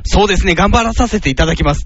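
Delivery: Zakiyama, politely earnest. Retold or imitated. Usually joking comedian answers reporters about a duo revival, imitated politeness. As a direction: answer courteously, as if quoting a formal reply. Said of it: "丁寧に答えた".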